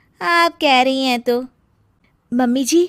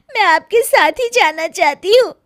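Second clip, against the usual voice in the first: tearful; 3 semitones higher than usual. Acted. Crying daughter to mother.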